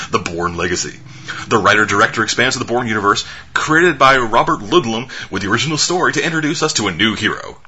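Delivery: measured trailer-copy read; reading synopsis aloud. Real, not acted. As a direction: read it out like a press blurb. Reads out a film synopsis.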